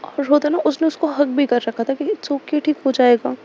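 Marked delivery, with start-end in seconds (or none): 2.0-3.3 lovingly soothing. Retold or imitated. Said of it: "बड़े प्यार से समझा रही थी".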